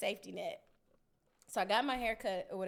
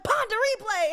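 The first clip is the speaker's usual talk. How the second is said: put-on kid's answer; 13 semitones higher, 13 dB louder than usual. Kid answers mom.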